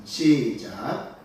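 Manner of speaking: slow, stretched start signal; drawn-out cue. Real, not acted. Pastor cues the congregation to read, drawn out. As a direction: stretch out the word to bring everyone in.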